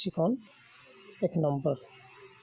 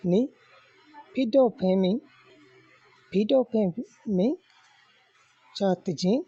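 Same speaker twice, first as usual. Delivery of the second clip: loud, raised-pitch recitation of drill words; lesson recitation; 3 dB louder than usual. Shown as a demonstration. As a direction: recite each phrase out for pupils to follow. (بلند آواز میں سبق پڑھانا)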